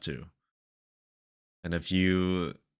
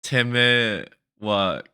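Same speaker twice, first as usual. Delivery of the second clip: Weebanese; 6 dB louder, slower than usual. Pretend. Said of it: "or something".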